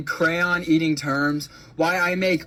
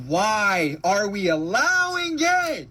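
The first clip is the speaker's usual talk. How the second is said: slow, shouted question; exasperated outcry; slower than usual. Real, not acted. Ranter asks why people accept this, slow exasperated shout. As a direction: stretch it into an anguished demand. Outraged rant at the public.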